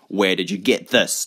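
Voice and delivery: firm interrogating question; pressing, insistent; demanding. Acted. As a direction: demand an answer up close. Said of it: "Frank demanded".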